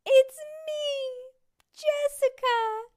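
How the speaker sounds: very high, loud, slow wail; high crying voice. Acted. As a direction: wail it like the movie. Story dialogue in movie voice.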